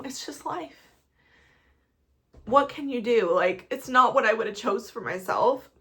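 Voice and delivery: crying, voice high and cracking. Real, not acted. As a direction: talk through real tears. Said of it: "I can't stop crying".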